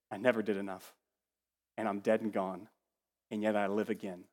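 low, soft and hushed; quiet confession. Acted. Preacher voicing a believer looking back, soft and low. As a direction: confess it softly, like a final breath.

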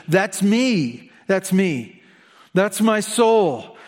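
rising earnest declaration, slowing on soul; psalmist's cry. Acted. Psalmist confesses his thirsting soul, earnest. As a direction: voice the psalmist owning it.

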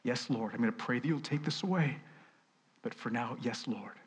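soft, surrendered yes to the Lord; humble prayer. Pretend. Preacher voicing a soft, humble prayer of surrender. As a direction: pray it quietly on bended knee. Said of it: "bend our knee before God and say".

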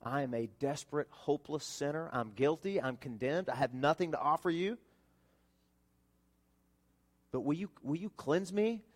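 soft, pleading, humble prayer. Shown as a demonstration. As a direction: pray it softly as a broken sinner asking for mercy. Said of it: "come broken and humble and honest and open to Jesus and say".

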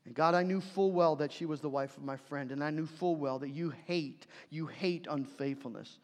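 a lightly acted, hushed admission to God; David confessing. King David admitting to God he knew full well, subdued. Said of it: "This is David coming to God and saying".

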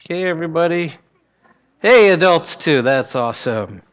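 put-on gentle, upbeat voice for kids; sweet patient sunday school. Children's prayer time.

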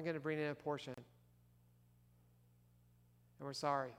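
imagine confessing to a leader, subdued and sincere; soft, low-key contrite admission; sincere apology. Retold or imitated. Voices a sincere apology to Peter.

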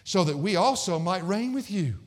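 mock-earnest wish, stretched out; sarcastic. Preacher reading Paul's wish to Corinth, sarcastic. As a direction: lift the pitch gradually through a wry wish. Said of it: "I think this is even sarcastic too".

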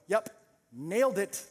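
self-satisfied classroom know-it-all; smug kid. Acted. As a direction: say it proud of yourself. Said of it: "They sit back down full of pride".

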